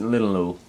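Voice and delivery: linalool asked as "lin-a-lo"; linalool pronunciation query. Shown as a demonstration. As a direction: say linalool ending in a long "lo". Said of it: "Do people pronounce it".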